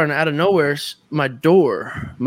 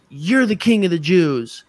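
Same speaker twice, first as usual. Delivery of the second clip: slow, higher put-on voice; imitated crazy proclamation; 4 semitones higher than usual. Strange girl addressing the buddy walking in, slow proclamation. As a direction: proclaim it slowly, as the odd intruder.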